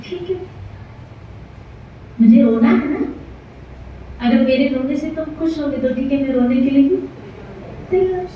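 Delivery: softly spoken, lightly acted submission; gentle acceptance. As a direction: accept it mildly, without resistance. God gently accepts the curse. (कोमल स्वर में सहज स्वीकृति)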